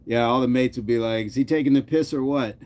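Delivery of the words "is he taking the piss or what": British slang tried as a quote, slightly lifted in pitch; attempted British accent. Streamer voicing the mates' reaction, attempted British accent. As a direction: put on a British mate's puzzled question. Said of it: "even that doesn't sound right".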